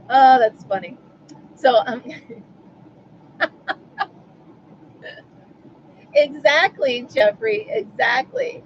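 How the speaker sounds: laughing till crying; laughing hard. Real, not acted. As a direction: crack up with teary laughter.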